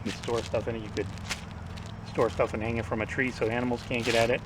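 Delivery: slightly slurred, numb-mouthed speech; numb mouth after teeth pulled. Real, not acted. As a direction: talk like your teeth were just pulled. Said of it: "I'm talking a little funny".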